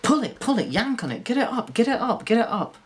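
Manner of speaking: high, loud urgent calls; excited yelling. Retold or imitated. Friend in the boat urging him to pull the fish, loud and high. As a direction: yell at him to reel it in. Friend shouting fishing instructions.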